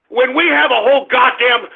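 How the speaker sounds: ordinary talk, nothing marked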